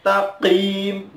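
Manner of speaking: TAQIM with a mistaken q sound; wrong consonant. Shown as a demonstration. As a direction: say "taqim" as a faulty example.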